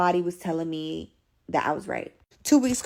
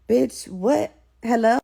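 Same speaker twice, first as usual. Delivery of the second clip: raised, incredulous challenge; mock outrage; 4 semitones higher, 4 dB louder, slower than usual. Reacting to boyfriend's open phone line, mock outrage. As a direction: demand an answer, pitched up. Acted outrage at overhearing him.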